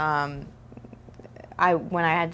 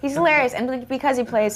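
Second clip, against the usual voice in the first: much higher and louder, gushing on hilarious; excited; 8 semitones higher, 5 dB louder than usual. Real, not acted. Actress praising her co-star, excited and much louder. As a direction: burst out with delight.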